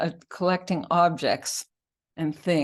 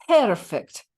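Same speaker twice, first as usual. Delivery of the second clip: higher, louder Irish exclamation; Irish-accented nurse's cry, pitched up; 5 semitones higher, 7 dB louder than usual. Acted. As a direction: proclaim it in an Irish brogue. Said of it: "proclaimed the Irish nurse".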